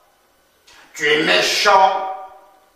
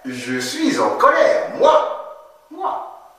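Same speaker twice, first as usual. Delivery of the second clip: shouting je suis en colère like a teacher miming rage; angry shout; 11 semitones higher than usual. Shown as a demonstration. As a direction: show anger by shouting it. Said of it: "Très bien".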